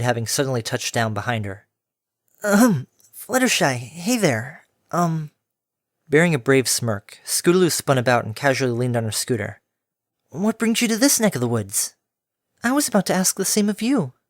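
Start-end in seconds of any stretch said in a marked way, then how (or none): 2.4-5.3 high, awkward tomboy filly; young filly voice. Acted. Foal caught off guard. 10.3-11.9 high, casual tomboy filly; young filly voice. Acted. 12.6-14.1 airy timid pegasus; gentle mare voice. Acted.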